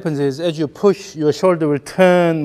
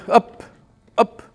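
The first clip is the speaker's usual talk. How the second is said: higher, brisk up cues; rhythmic coaching calls; 9 semitones higher than usual. Shown as a demonstration. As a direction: snap out each up. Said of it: "Up, up should be more active".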